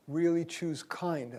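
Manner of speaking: slow down and lean on "kind"; "kind" drawn out with deliberate weight; stress on KIND. Real, not acted. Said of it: "I notice I emphasize that word".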